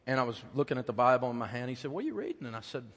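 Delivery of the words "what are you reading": put-on high little-boy voice; a small son asking his dad, voiced high; small child. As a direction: ask like a curious four-year-old.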